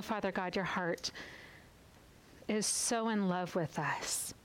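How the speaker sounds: intimate spoken prayer, pausing between lines; closing prayer. Acted.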